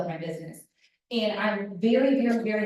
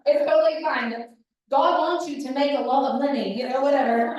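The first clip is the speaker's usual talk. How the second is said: mock Southern accent; 4 semitones higher, 4 dB louder than usual. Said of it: "That wasn't Southern".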